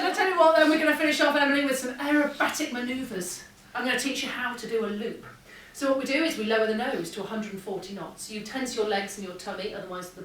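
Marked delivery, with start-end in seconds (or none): 0.0-5.3 louder, upbeat instructor voice; rally the cadet with energy; enthusiastic instructor. Retold or imitated. Instructor announces aerobatics to cadet.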